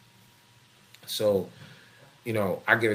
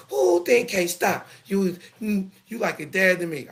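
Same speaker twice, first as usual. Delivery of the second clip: mock daughter; 11 semitones higher, 6 dB louder than usual. Father mimics a daughter sweet-talking him, high mock voice.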